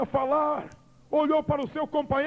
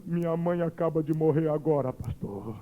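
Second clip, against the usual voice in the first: put-on crying girl; 8 semitones lower than usual. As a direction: let it break as she weeps. Crying girl reports mother's death.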